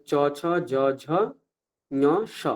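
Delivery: each letter said separately with palatal স; palatal pronunciation. Shown as a demonstration. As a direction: sound out চ, ছ, জ, ঝ, ঞ, স from the palate. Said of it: "এরকম উচ্চারণ করতে হবে". (তালব্য উচ্চারণ)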